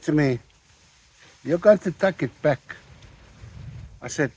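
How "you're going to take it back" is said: a mock angry demand, raised. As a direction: retell the shopkeeper's angry demand. Angry shop owner demands return.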